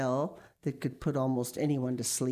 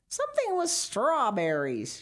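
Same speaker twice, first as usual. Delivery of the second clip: high, raised call across the room; a mother calling a reminder, a bit louder; calling after him; 10 semitones higher, 3 dB louder than usual. Acted. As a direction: call it out to someone walking away. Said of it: "she called after him".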